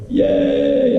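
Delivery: high, airy little mock cheer; teacher's cheer. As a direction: squeal a breathy yay like a delighted teacher. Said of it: "I go".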